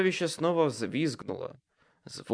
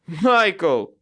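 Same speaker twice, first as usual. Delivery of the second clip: loud, higher howl of a name; 5 semitones higher, 10 dB louder than usual. A narrator's reading. Wizard straining at a spell, howls at Michael. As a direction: wail it out in frustration. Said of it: "всё-таки взвыл я".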